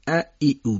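ا، ای، او as Arabic a, i, u; Arabic short vowels. Shown as a demonstration. Teacher telling listeners to learn Arabic vowels, separated. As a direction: say ا، ای، او one by one, Arabic style. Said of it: "عربیش یاد بگیرید".

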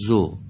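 "زو" with one short u, end left open; "زو" as a brief, open Arabic syllable; correct open short damma. Shown as a demonstration. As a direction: model "زو" without a closing hamza. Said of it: "به این شکل باید بگیم".

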